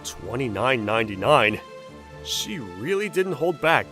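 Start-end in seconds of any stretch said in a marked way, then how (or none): 0.0-1.6 shocked at price. Acted. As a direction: balk loudly at the cost.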